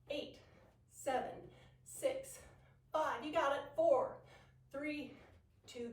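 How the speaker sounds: loud, high pumped-up counting; cheering the class through the reps; aerobics instructor. Real, not acted. Energetic workout count-off.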